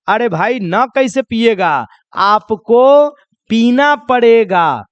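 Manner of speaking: slow, pressing, insistent offer; insisting friend. Acted. Friend at a party pressing a drink, insistent. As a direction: push the drink on him, slowly. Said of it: "तो उसका दोस्त बोलेगा".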